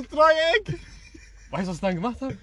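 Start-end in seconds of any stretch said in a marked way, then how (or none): 0.0-0.8 high, drawn-out imitated team yell; teammates screaming. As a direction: call it out long for the whole team. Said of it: "mein Team schreien so".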